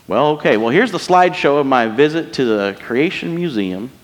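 lightly put-on Southern accent for fun. Preacher mimicking someone showing Creation Museum slides, Southern accent. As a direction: slip into a mock Southern accent. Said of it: "Southern accent".

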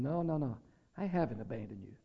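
soft, low voice of God reassuring a complaining believer; gentle reassurance. Retold or imitated. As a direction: hush it down like God calming a worried child. Voicing God's gentle answer.

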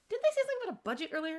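high, rapid puzzled question; quick, high-pitched double-take. Retold or imitated. Viewer questioning a forgotten plot point, puzzled.

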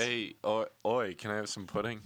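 amateur comic stab at a British accent; attempted British accent. Shown as a demonstration. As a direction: put on a rough British accent. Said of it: "can you do any accents?".

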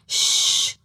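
unvoiced shh; hushing. Jesus hushing the wind and sea, unvoiced shush. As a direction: hush them like a sleepy parent. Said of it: "¿no ves que estoy durmiendo la siesta?".

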